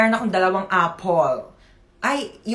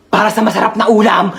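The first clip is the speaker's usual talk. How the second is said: monster shout; 7 dB louder than usual. Acted. Zombie lunges for food.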